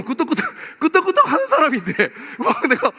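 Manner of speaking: cracking up mid-sentence; laughing. Real, not acted. A preacher cracking up at his own example, real laughter.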